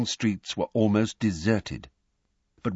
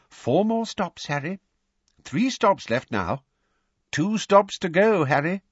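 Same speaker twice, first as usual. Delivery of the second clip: anxious; 12 semitones higher, 3 dB louder than usual. A narrator's reading. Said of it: "kept anxiously checking and rechecking".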